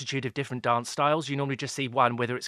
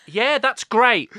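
bluffing politely; 9 semitones higher, 8 dB louder, much slower than usual. Retold or imitated. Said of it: "I was like".

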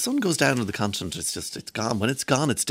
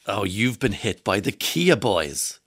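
Donie twang; slower than usual. Retold or imitated. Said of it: "I'm doing my Donie twang".

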